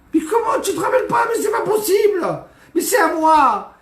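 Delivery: high, loud frantic protest; panicked outcry. Acted. Guest to rabbi's wife over his purse, frantic high outcry. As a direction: cry out in desperate panic.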